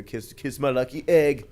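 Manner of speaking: light Jamaican-style lilt, mock line; lightly voiced Cool Runnings quote; a hint of a Jamaican accent. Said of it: "I like to do the voice".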